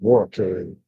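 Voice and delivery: Boracay said BORE-a-kay; wrong take, first-syllable stress on Boracay; mispronounced Boracay. Shown as a demonstration. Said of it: "They call it Boracay".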